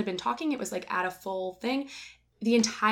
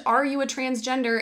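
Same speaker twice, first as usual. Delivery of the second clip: louder, higher mock scream; imitating a stranger yelling in public; retold scream; 6 semitones higher, 6 dB louder than usual. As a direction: belt it across the airport. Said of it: "He literally screamed".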